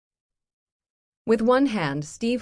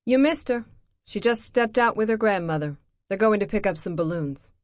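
louder, clipped irritated ex-wife voice; impatient and fed up; tired, irritated ex-wife; 5 semitones higher, 5 dB louder than usual. Acted. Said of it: "sounds tired and irritated".

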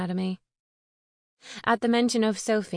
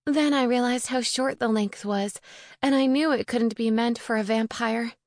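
higher-pitched voice for a distressed friend; lightly voiced upset witch, pitched up; distressed young witch; 3 semitones higher than usual. Sophie explains how she found the coffin, higher, earnest voice.

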